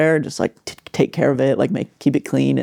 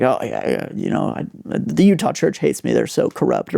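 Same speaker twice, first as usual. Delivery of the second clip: put-on bitter old man. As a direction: mutter it like a bitter grandpa. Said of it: "Just being a, a angry man".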